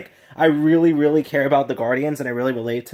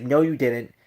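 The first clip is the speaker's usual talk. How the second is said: very calm; 3 semitones lower than usual. Retold or imitated. Star-Lord calmly contradicting Thanos, very calm and collected. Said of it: "Like, calmly, like, very calmly".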